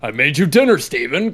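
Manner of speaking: a hint of a sweet girlfriend voice; lightly voiced girlfriend, mock sweet; imitating Melina. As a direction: play it innocent and sugary. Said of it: "Like the fucking Hulk".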